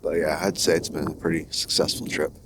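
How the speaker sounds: talking with retainers in; wearing a retainer. Real, not acted. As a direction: retainer in the mouth, slightly off speech. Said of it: "Got my retainers in, so I sound kinda weird".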